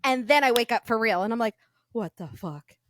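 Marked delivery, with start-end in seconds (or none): 1.9-2.8 retold stunned reaction. Retold waking, baffled reaction.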